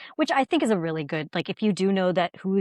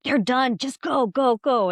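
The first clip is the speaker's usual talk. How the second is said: hurried urging; 7 semitones higher, 5 dB louder, slower than usual. Retold or imitated. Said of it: "and they were like".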